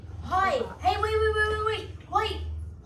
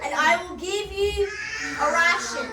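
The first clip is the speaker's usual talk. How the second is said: put-on Scottish accent; 4 semitones higher, 5 dB louder than usual. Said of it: "to Scottish to Cagney English".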